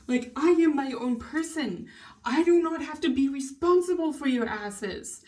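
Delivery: real, worked-up insistence, pitch lifted; heated rant. Real, not acted. Venting about being made responsible for others, heated. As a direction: push each word, fed up and heated. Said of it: "little heated".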